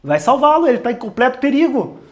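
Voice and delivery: mock panicked plea; urgent plea. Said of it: "fala assim". (súplica aflita encenada, mais aguda e mais alta)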